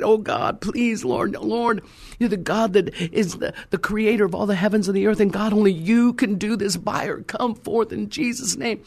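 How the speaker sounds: earnest retold supplication; crying out in prayer. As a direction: act out begging God from the floor. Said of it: "I began to cry out".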